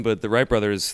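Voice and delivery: ordinary talk, nothing marked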